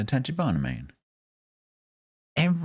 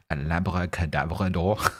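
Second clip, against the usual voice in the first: put-on German accent. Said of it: "That's fantastic in a German accent".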